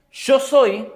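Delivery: high, loud proclamation as God; God declaring His name. Acted. God answers Moses with His name, proclaiming. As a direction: proclaim it loudly, set apart.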